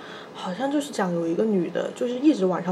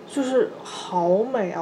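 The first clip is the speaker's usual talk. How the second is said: dreamy; much slower than usual. Retold or imitated. Recalling fairyland park.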